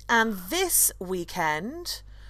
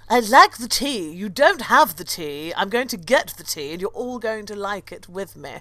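bad Portuguese accent; 3 dB louder than usual. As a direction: put on your best comic Portuguese accent. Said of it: "Is that your best Portuguese accent?".

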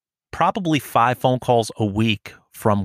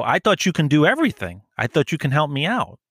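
mock earnest pitch; 4 semitones higher than usual. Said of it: "And I go".

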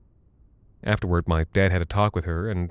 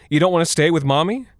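much higher, loud wailing plea with a rise; howling mother; 9 semitones higher, 4 dB louder than usual. Acted. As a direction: wail it, desperate. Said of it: "she howled at us".

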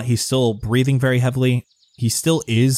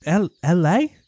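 higher, puzzled rustic voice; baffled villager; 8 semitones higher than usual. Acted. Farmer hears of Los Angeles, baffled. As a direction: echo the unknown name as a baffled villager.

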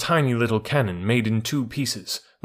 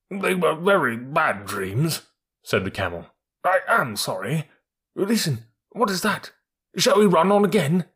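frightened camel voice; 6 semitones higher than usual. Acted.

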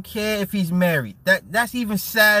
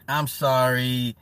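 slow, insincere "I'm sorry"; slow mock apology; 5 semitones lower, slower than usual. Shown as a demonstration. Apologizing to chat for mocking a dude, slowly and insincerely. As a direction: draw out "I'm sorry" slowly, not meaning it. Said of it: "Not sorry".

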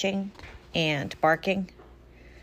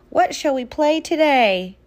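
higher, louder, bursting to play; eager puppy question; 8 semitones higher, 6 dB louder than usual. Acted. City Dog asking Country Frog to play, excited. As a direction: ask it like a puppy who can't wait. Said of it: "asked City Dog".

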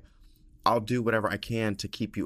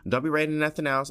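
louder, higher, fast insistence; emphatic repeat; 7 semitones higher, 4 dB louder, faster than usual. Shown as a demonstration. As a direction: hammer the point home.

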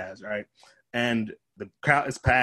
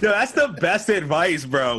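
laughing; 5 semitones higher, 5 dB louder, slower than usual. Real, not acted. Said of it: "laughing at the story".

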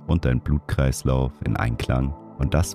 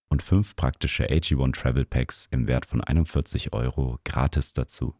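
ad read. Acted. Sponsor ad read.

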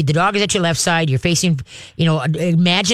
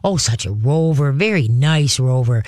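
dog praise; 3 semitones lower than usual. Shown as a demonstration.

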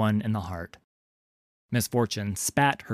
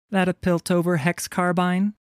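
high, lilting question; high-pitched, cool deflecting query; taunting pirate woman; 9 semitones higher, 4 dB louder than usual. A narrator's reading. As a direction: toss it out lightly, ignoring his demand. Heroine taunts, ignoring his question.

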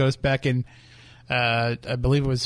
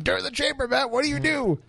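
imitated yelling; 11 semitones higher than usual. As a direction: imitate an exasperated mentor yelling over a shoulder. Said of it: "standing over your shoulder yelling".

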